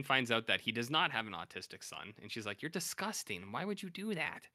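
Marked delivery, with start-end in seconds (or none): 2.6-4.5 high-pitched, appalled woman voice; Corinne voice. Retold or imitated. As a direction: pitch up into a scandalized wife. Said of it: "That's my Corinne voice".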